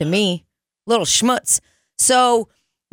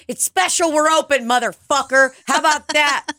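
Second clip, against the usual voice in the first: high-pitched defiant rant; exasperated, combative retort; indignant comeback; 9 semitones higher than usual. Retold or imitated. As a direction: tell off a fussy customer, voice pitched way up. Ranting back at customers.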